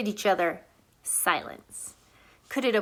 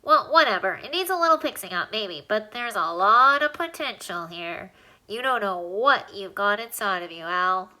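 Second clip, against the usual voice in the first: a lightly squeaky little alien, pleased with the rooms. Acted. Alien lists the rooms in Alan's nose, lightly squeaky and pleased.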